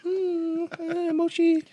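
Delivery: high whimpering giggle; being tickled. Pretend. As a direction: squeal while tickled.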